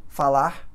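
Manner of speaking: "falar" with the final R dropped; variant final R. Shown as a demonstration. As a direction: end "falar" on an open "a", stressed last syllable. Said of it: "vários sons".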